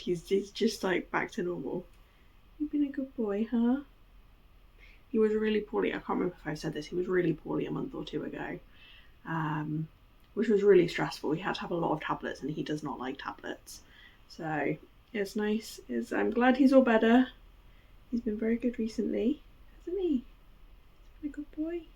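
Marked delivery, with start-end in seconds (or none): 2.6-3.8 high coaxing voice to a dog; high pet-talk voice. Real, not acted. Talking to the dog. 19.8-21.8 high coaxing voice to a dog; high pet-talk voice. Real, not acted. Talking to the dog.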